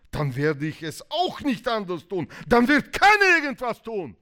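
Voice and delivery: building to a high, loud outburst; acted marital standoff boiling over; angry ultimatum. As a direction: escalate into a stubborn shout. Acted quarrel escalates into stalemate.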